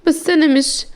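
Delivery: put-on understated tearful young woman; mild tearful protest. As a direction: protest with a hint of crying. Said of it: "زهرة ببكاء".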